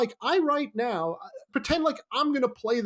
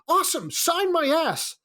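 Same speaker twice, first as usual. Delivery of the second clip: high, eager frat bro calling out; frat boy; 9 semitones higher than usual. Retold or imitated. Frat boy rushing up to the lawyer, high eager call. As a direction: run up like an overexcited fan. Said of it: "I go".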